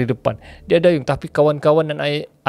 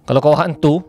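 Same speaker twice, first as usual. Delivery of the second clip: daring call; 2 semitones higher, 4 dB louder than usual. Retold or imitated. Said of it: "dia cakap betul".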